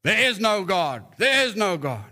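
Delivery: mild mock yell; retold yell. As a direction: imitate the irritated neighbour calling over. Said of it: "yell to her".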